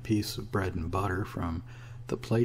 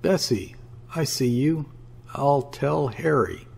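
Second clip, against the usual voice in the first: higher-pitched, piercing call; piercing cry; 5 semitones higher than usual. A narrator's reading. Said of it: "suddenly cried piercingly".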